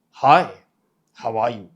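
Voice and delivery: loud, stretched-out "Hi"; deep, elongated vowels. Shown as a demonstration. Coach demonstrating tone, deep with elongated vowels. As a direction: draw out the vowels, keeping it deep. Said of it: "elongating the wobble, wobble".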